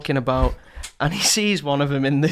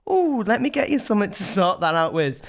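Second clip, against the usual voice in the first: imitating mum; 4 semitones higher than usual. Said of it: "And she goes".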